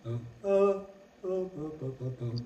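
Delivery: vocal leap demo. Shown as a demonstration. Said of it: "Vous voyez l'écart?".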